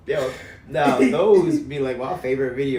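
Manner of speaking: put-on laid-on West African accent. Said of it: "Not the accent, though".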